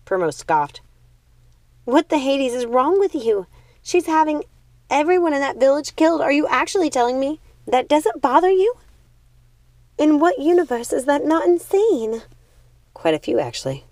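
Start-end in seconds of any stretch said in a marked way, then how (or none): 1.8-12.2 high, loud, incredulous sister; outraged younger sister. Acted. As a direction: demand an answer in disbelief.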